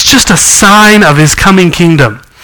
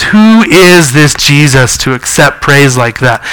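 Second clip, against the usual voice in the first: scornful Pharisees; 3 semitones lower, slower than usual. Retold or imitated. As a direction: lower and slow, a hint of disdain. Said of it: "basically what they're saying is".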